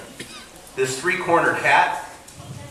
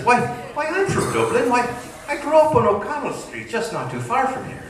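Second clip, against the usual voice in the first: put-on drunk Irish patron; 9 semitones higher than usual. Drunk Irishman in pub joke.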